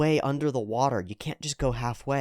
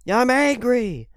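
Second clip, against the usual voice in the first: angry shout; 12 semitones higher, 6 dB louder than usual. Retold or imitated. Roommate admitting anger, shouted.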